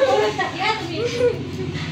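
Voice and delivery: slow, stretched playful teasing; slow teasing drawl. Real, not acted. मुलीला लाडाने चिडवणे. (लांबवत लाडिक चिडवणे)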